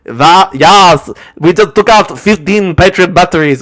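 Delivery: loud mock German accent; shouty caricature of a German accent; Kim dot com, Germanic accent. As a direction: bellow it in a hammed-up German accent. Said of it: "he's also got the Germanic accent".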